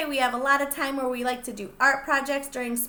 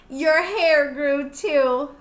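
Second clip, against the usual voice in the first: slow, playful read-aloud; slow, teasing storybook reading; storybook line; 6 dB louder, much slower than usual. Acted. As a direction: stretch it out for the children. Teacher reads picture book aloud.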